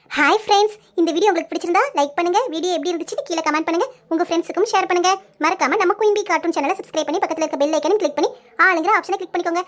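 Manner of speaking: quick, friendly sign-off to subscribers; channel outro. Acted. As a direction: rattle off the like-and-subscribe pitch. Channel outro asking for likes. (வேகமான YouTube முடிவுரை)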